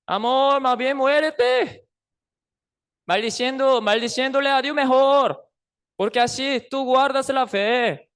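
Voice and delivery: mock tenderness hiding bad advice; Job's wife. Job's wife to suffering Job, mockingly sweet.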